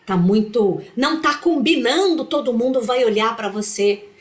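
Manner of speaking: rising, pushy scolding; inner critic voice. Retold or imitated. Her inner critic insisting on the outfit, rising scolding. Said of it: "quando essa voz diz assim".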